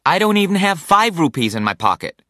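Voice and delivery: dismayed cry of protest; cried out. A narrator's reading. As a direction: blurt it out in dismay. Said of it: "cried Zachary".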